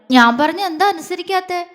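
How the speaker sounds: a sulky push with the lip out; pouting complaint. A narrator's reading. Wife pouting at husband who won't listen, pouty whine. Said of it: "അവൾ ചുണ്ടു പിളർത്തി".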